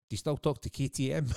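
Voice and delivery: high, mock-innocent question; cheeky question. Fan asking Charlie the first question in his head, high and cheeky.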